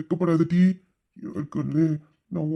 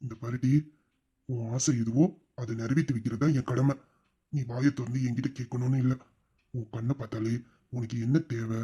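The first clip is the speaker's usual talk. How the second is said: reassuring. Acted. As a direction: soothe her gently. Husband reassuring tearful wife.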